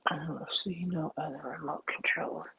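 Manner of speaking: soft whisper while searching. Real, not acted. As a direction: whisper it under breath.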